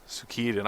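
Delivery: Suikoden said softly as soo-KEE-den; echoed pronunciation. Shown as a demonstration. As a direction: quietly try Suikoden with a long "kee". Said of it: "I always called it Suikoden".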